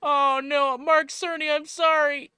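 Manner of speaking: high and loud through laughter; wheezing with laughter; laughing hard. Real, not acted. Helpless laughter at host.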